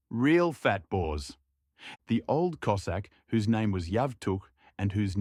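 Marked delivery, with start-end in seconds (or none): 0.1-1.4 slow, drawn-out scornful jab; scornful old woman. Acted. The cook woman insults the supper crowd, slow and scornful. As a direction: sneer it out slowly.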